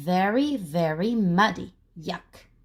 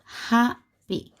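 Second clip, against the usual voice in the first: slow clear model word happy; teacher modelling word. Shown as a demonstration. Teacher models word for children learning spelling, clear. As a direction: say happy slowly for the class. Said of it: "how do we write happy".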